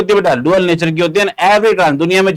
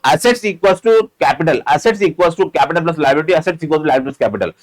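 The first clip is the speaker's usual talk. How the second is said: slow rote recitation; much slower than usual. Shown as a demonstration. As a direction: chant the formula slowly for memorising. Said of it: "रट्टा मारनी है बेटा". (रटवाने वाली धीमी आवाज़ में)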